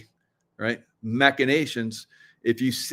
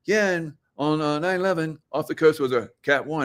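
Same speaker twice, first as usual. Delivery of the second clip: mock newscaster; 5 semitones higher than usual. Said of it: "So then they start".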